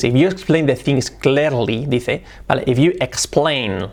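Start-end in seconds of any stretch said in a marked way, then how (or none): 0.0-1.9 "clearly" as KLAIR-lee; imitated learner English. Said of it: "fijaos que dice things". 2.7-3.9 "explain" slowly with a firm L; slow model of "explain"; strong L. Shown as a demonstration. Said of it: "la L fuerte".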